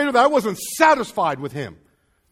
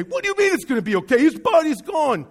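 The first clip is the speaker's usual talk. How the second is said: high, raised-pitch disbelief; distraught protest; 5 semitones higher, 3 dB louder than usual. Acted. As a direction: protest in rising alarm. Voicing upset Mary, arguing back.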